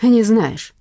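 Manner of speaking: weighty comeback, drawn out; curt retort. A narrator's reading. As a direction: warn him firmly. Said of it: "отрезал дядя Вася".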